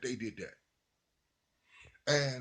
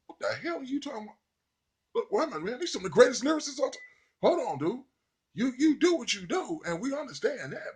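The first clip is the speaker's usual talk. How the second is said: incredulous protest; 10 semitones higher, 4 dB louder, faster than usual. Retold or imitated. Lyricists pushing back on a rapper.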